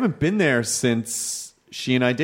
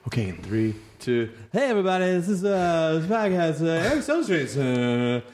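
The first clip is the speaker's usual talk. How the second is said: mock radio host; 3 semitones higher than usual. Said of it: "This is how you know it's not radio".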